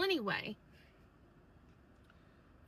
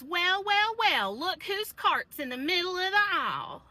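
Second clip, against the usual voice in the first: loud, higher, smug "well, well, well"; gloating taunt; 7 semitones higher, 6 dB louder than usual. Retold or imitated. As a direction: crow it like you caught her out. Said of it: "And she goes".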